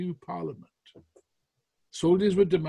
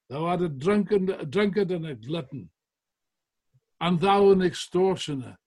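loud, raised accusations; shouted insults; 3 semitones higher, 7 dB louder than usual. Retold or imitated. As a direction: denounce each one in turn. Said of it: "Cromwell shouted to one".

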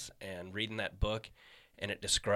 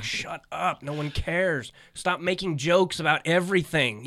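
annoyed retort; 6 semitones higher, 8 dB louder, slower than usual. Retold or imitated. Telling off constantly-on comic.

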